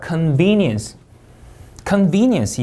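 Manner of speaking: "convenience" with VEN stressed; con-VEN-ience, "convenience" falling after VEN; second-syllable stress. Shown as a demonstration. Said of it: "이음절 강세".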